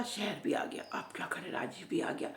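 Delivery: soft whispered narration; storyteller whispering to the children about reaching the town; hushed whisper. A narrator's reading. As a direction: drop to a hush for suspense.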